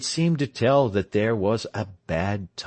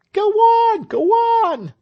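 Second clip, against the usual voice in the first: very high, loud urging shout; crowd shouting; 9 dB louder than usual. A narrator's reading. The crowd urging Tell to speak, loud high shout. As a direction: egg him on as a crowd. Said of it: "shouted the crowd".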